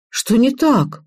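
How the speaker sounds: high, mildly puzzled question; surprised. A narrator's reading. Girl wonders what went wrong, surprised. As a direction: ask in mild surprise. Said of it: "удивилась Ира".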